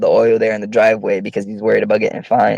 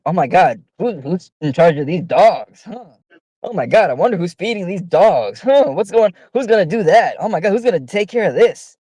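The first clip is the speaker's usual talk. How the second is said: mock wondering; 5 semitones higher than usual. Housemates hinting someone else should do chores, mock wondering. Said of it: "they started doing this thing where everybody would just go around".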